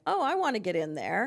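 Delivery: a hint of an excited kid butting in; eager kid. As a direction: pipe up like a kid wanting in. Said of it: "kids are gonna wanna".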